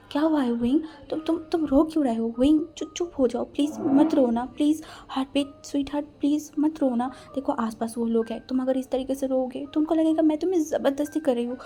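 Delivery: frantically coaxing a crying lover to stop; anxious pleading. Acted. Wang begging his crying lover to stop, anxious and urgent.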